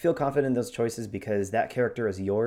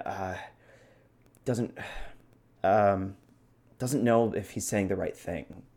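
halting, full of uhs and ums; hesitant, trailing ex-general. Shown as a demonstration. Host demonstrates his self-doubting ex-general, hesitant and trailing. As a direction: trail off, unsure you're saying it right. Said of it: "he has a lot of ums".

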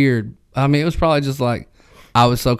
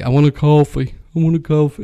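retold country-accented order, pitched up; 4 semitones higher than usual. Ordering coffee in California, country accent. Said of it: "You're so fucking country".

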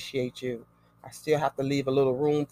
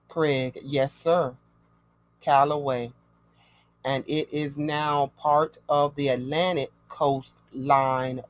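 dictating. Acted. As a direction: read it out like dictating a record. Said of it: "of dictation this evening".

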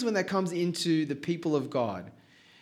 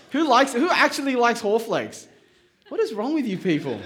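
higher, louder, laughing through it; laughing mock outrage; 6 semitones higher, 5 dB louder than usual. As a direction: tease them with laughing disbelief. Mock outrage at Haw Flakes.

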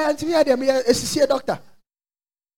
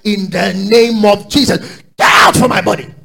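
firm rebuke; 3 semitones lower, 6 dB louder than usual. Retold or imitated. Retold rebuke of pain.

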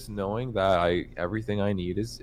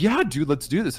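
frat bro; 10 semitones higher, 3 dB louder than usual. Retold or imitated. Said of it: "they're like".

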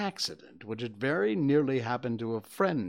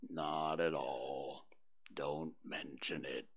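low, slow, soft donkey voice; gloomy Eeyore; 8 semitones lower, 5 dB quieter, slower than usual. Acted. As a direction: mope through it like a gloomy old donkey.

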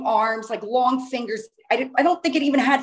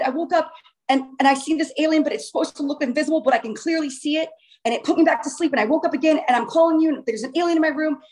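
mildly acted panicked rush; frantic retelling, slightly raised voice; retold hyperventilating; 3 semitones higher, faster than usual. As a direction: blurt it out to mom in mock panic. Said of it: "I'm, like, hyperventilating".

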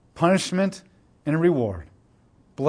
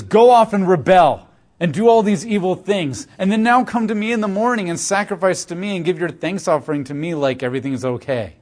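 sarcastic God; 2 semitones higher than usual. Retold or imitated. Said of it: "God becomes sarcastic again".

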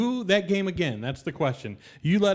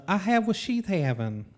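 Southern gentleman voice; 4 semitones higher than usual. Acted. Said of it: "speaks in the effeminate Southern gentleman's voice".

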